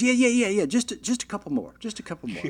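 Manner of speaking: high mock groom brushing her off; dismissive stalling. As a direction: wave it away in a high put-on voice. Groom stalling, voiced by teller.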